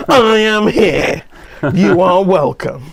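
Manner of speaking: slow, formal radio host voice. Retold or imitated. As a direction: announce it slowly like a radio host. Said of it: "with your radio voice in on".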